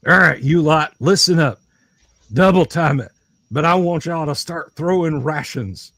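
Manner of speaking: lightly voiced order to the troops; commanding party member. Player ordering the group to speed up, mildly commanding.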